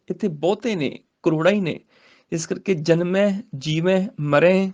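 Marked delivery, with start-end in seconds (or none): 2.7-4.7 "ਜਨਮੈ ਜੀਵੈ ਮਰੈ" each ending in nasalised ai; nasal endings. Shown as a demonstration. Teacher explains the plural, "ਜਨਮੈ ਜੀਵੈ ਮਰੈ" nasalised. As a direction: send the last vowel of "ਜਨਮੈ ਜੀਵੈ ਮਰੈ" through the nose. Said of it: "ਇਹ ਸਾਰਿਆਂ ਦੇ ਨਾਸਕੀ ਉਚਾਰਨ".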